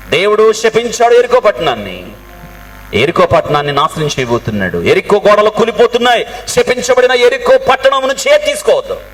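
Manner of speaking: rising to a high-pitched proclamation; acted stern warning. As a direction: warn the troops like a commander. Preacher voices Joshua's warning to troops.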